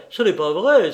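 loud repeated denial, falling at the end; angry outcry. A narrator's reading. Banker repeating his angry denial to Lupin. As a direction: insist again, still shouting. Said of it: "s'écria Engelmann en lui montrant le poing".

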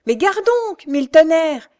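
high, loud furious bellow; angry coachman's shout. A narrator's reading. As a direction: curse at her while reining in the horses. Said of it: "criait le cocher". (juron furieux, crié très fort et aigu)

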